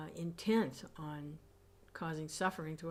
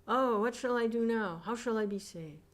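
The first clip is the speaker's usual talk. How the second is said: anguished high cry; cry of despair; 5 semitones higher, 8 dB louder than usual. A narrator's reading. Sinner in hell cries out for rescue, high and anguished. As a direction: cry out in hopeless torment. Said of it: "he cries out".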